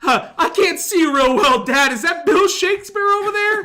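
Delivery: put-on old man voice. Mock old-timer bit.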